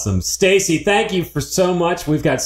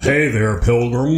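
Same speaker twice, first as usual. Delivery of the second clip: a hint of a drawling American cowboy; lightly voiced American movie cowboy, with a laugh; American cowboy accent; 2 semitones lower, slower than usual. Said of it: "an American accent".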